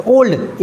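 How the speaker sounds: ओल्ड said in one single beat; one syllable. Shown as a demonstration. Teacher showing a one-syllable word, ओल्ड in one beat. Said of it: "एक बार में बोल दिया".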